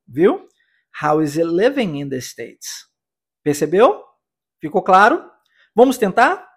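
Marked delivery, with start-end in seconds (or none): 1.0-2.9 "How is it living in the States?" linked, the T of "it" dropped, a bit slow; natural linked English. Shown as a demonstration. Teacher modelling the natural sentence for students. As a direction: run "is it" together with a Z sound. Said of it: "vou dar um tempo pra você pronunciá-la".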